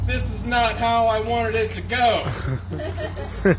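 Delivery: slow, laughing lament; slow laughing sigh at his luck; laughing despair. Real, not acted. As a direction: drag it out laughing. Slow defeated punchline, laughing.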